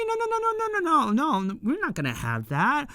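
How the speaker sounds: high, frantic run of no's in a put-on voice; panicked protest. Fan acting the candy lover's frantic refusal, high and put-on. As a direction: jump way up and refuse in alarm.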